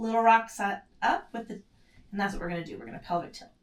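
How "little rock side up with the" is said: whispered cue. Real, not acted. Instructor cueing mid-exercise.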